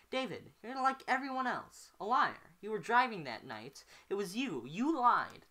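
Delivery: high, loud, furious accusation; shouting. Acted. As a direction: hurl it at him across the table. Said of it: "David shouts".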